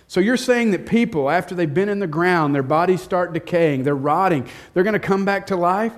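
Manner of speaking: incredulous scoffing, pitch climbing; mock taunting. Scoffer taunting believers, mocking disbelief. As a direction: sneer at the idea of bodies rising. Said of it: "you can almost hear the taunting".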